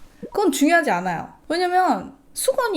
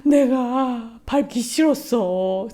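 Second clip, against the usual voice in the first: put-on teary child voice; much slower than usual. Mom imitating her sobbing son's excuse. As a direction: whimper it like a small boy caught out.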